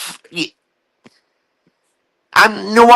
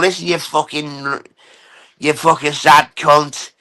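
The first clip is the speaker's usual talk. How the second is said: lower-pitched imagined telling-off, insults thrown at him; mock telling-off; 5 semitones lower than usual. To Jamie, if the situation were reversed: a lower mock telling-off. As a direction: put him in his place in a lower voice. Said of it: "I'd be over here going".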